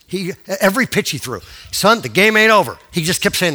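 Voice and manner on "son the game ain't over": raised, louder fatherly urging; rally the boy from the mound; encouraging dad. Retold or imitated. Retold father urging his son on.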